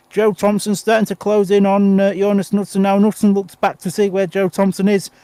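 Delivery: breathless from fast commentary; talking fast while short of breath. Real, not acted. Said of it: "I'm out of breath already".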